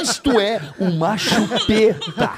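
laughing. Real, not acted. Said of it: "Eu tô chorando de rir".

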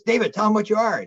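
high-pitched mock yell; retold yell. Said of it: "the guy yells".

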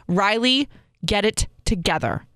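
firm self-talk. Shown as a demonstration. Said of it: "speak the words out loud".

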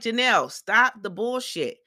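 high, emphatic scolding; exasperated retort. Retold or imitated. Recapper tells absent co-wife to stop, exasperated.

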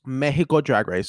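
"Mexico" as MEH-hee-koh; Spanish pronunciation. Real, not acted. Resuming the topic, "Mexico" in Spanish, MEH-hee-koh. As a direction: say "Mexico" with h in place of x. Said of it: "I don't know why I said Mexico".

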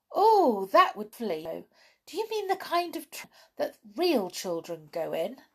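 high-pitched, lightly excited doll; a touch of wonder at the idea. A narrator's reading. Doll thrilled at idea of train.

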